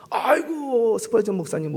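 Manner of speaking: high, eager "oh my"; surprised delight; delighted exclamation. Acted. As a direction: greet an honored guest with a high delighted cry. Pastor greets Spurgeon on phone.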